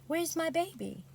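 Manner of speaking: high-pitched, proper Southern question; Maya Angelou. Acted. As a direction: put on a Southern lilt to ask it. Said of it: "that's why I'm reading it out in that sort of way".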